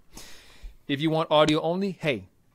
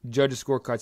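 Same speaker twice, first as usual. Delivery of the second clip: booming fight-night announcer build-up; ring announcer voice. Acted. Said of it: "I started slipping into my ring announcer voice there".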